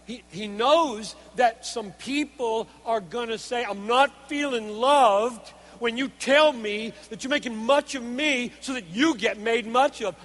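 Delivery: forceful, questioning sermon voice; emphatic preaching. Real, not acted. Preacher voicing people who don't feel loved, emphatic preaching. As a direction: argue it out before the congregation.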